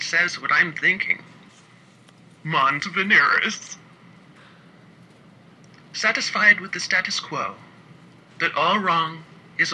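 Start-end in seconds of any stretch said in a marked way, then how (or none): 2.4-3.8 slow, knowing Latin term; knowing pronouncement. A narrator's reading. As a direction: savor the phrase slowly. Pete names it knowingly.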